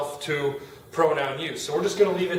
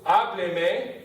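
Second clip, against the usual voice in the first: "hábleme" drawn out slowly, stressed on the a; stress on first syllable; 2 semitones higher than usual. Shown as a demonstration. Teacher showing the kept stress, slow "hábleme" stressed on its first syllable. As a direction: keep the weight on the opening "há" of "hábleme". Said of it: "I need to keep that stress there".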